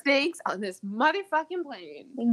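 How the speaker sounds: loud, punchy action-hero delivery; movie tough guy. Retold or imitated. Quoting the Snakes on a Plane movie, loud punchy action-hero voice. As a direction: bark it like an action movie line.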